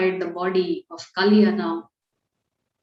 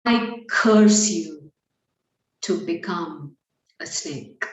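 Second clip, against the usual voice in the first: solemn curse; 3 semitones lower, slower than usual. Acted. One sage curses the other, slow solemn pronouncement. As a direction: pronounce it slowly, letting it sink away.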